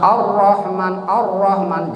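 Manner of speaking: slow "Ar-Rahman" with a short, heavy ro; thick R. Shown as a demonstration. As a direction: round the "Ra" in "Ar-Rahman", little trill. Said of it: "dibacanya harus tebal". ("Ar-Rahman" dengan ro tebal tanpa banyak getar)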